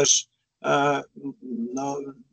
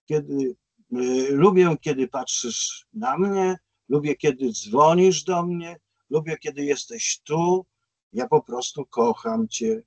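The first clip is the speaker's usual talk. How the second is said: slow, deliberate lyric reading; spoken song refrain, taken slowly; reciting a refrain; 2 semitones higher than usual. Retold or imitated. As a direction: recite it line by line, unhurried.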